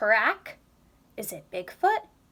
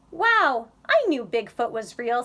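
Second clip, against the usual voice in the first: excited; 6 dB louder than usual. Acted. Bob sees Bigfoot's note.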